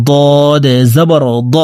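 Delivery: ضاد with a thick, heavy d sound. Shown as a demonstration. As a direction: teach ضاد with a full, heavy consonant. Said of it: "মোটা করে উচ্চারণ করব". (ضاد মোটা করে উচ্চারণ)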